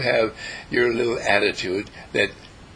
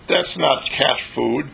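kitten's remark; slower than usual. Retold or imitated. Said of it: "they say".

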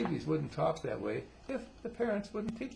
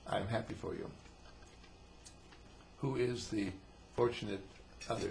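accepting father; 4 semitones lower, 5 dB quieter than usual. Acted. Accepting father, contrasted with outraged one.

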